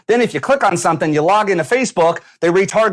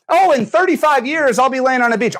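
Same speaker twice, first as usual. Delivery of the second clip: much higher, airy mock daydream; mock dreamer; 7 semitones higher than usual. Mocking a viewer's distant beach goal, high mock voice. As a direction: parody someone's lazy faraway dream. Mocking vague far-off goals.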